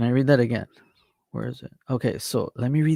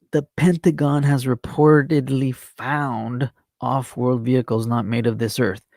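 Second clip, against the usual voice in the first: emphatic repeat. Real, not acted. Says it again for emphasis.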